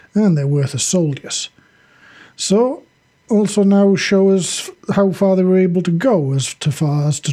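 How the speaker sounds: measured fiction narration; story narration. A narrator's reading. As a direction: read it out as a dramatic story.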